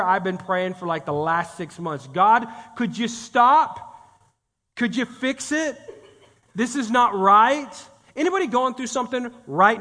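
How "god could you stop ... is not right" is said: slow pleading prayer. Retold or imitated.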